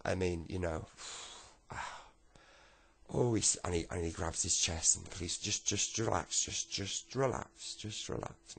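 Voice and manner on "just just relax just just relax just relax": slow, softening reassurance; soothing. Retold or imitated. Officer soothing granddad clutching his chest, slowly fading. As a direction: talk him down gently.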